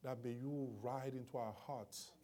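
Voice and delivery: soft, hushed prayer voice. Acted. Pastor praying before the congregation, soft and devout.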